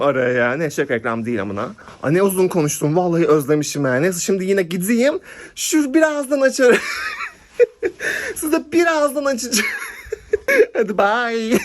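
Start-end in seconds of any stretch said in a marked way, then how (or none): 5.5-11.6 laughing fit. Real, not acted. Cracking up while signing off.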